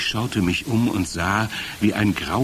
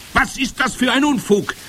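very high head-witch cry; indignant call. A narrator's reading. Head witch dismisses the report as nonsense, calling out. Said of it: "rief die Hoch- und Großmeisterhexe".

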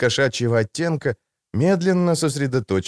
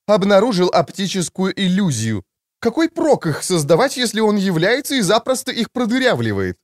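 high-pitched, aggrieved character voice; high, exasperated retort; indignant Babert, scornful; 9 semitones higher than usual. A narrator's reading. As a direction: argue back in a high, put-on voice. Babert argues, voiced by narrator.

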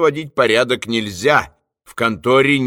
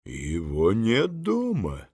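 quiet phone voice; 4 semitones lower, 9 dB quieter, slower than usual. A narrator's reading.

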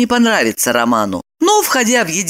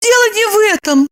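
softening. A narrator's reading. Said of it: "смягчилась Липочка".

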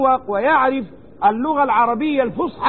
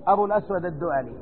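hushed fear; 6 semitones lower, 6 dB quieter, much faster than usual. A narrator's reading. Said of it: "فخاف".

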